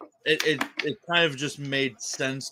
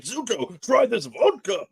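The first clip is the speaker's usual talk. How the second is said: put-on Iroh with Russian accent; 10 semitones higher, 4 dB louder, slower than usual. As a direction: joke Russian accent, drawn out at the end. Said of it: "like, Russian accent".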